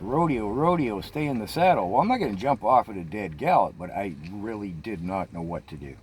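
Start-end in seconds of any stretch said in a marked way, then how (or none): 0.0-1.9 mild mock scream. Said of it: "Lori's screaming in panic".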